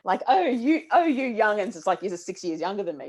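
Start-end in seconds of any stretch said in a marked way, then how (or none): 0.3-1.8 a hint of an old crone, higher and louder. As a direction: lightly play a crone fussing at youngins. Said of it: "talking like a real crone".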